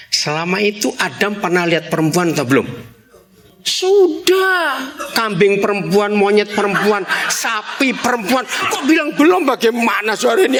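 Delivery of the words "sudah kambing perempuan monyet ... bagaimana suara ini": high-pitched mock outrage; exasperated comic objection, pitched high; indignant protest. Acts out indignant answer to his question.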